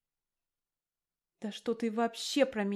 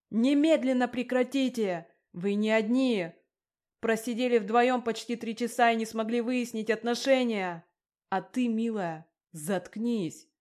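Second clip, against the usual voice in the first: roared; 3 semitones higher, 7 dB louder than usual. A narrator's reading. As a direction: bellow to silence the quarrel. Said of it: "заорал Рустам". (громкий протяжный рёв)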